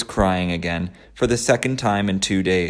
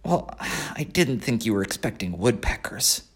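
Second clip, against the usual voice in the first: bitter; 3 semitones higher, 6 dB quieter than usual. Acted. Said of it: "said Wilbur bitterly".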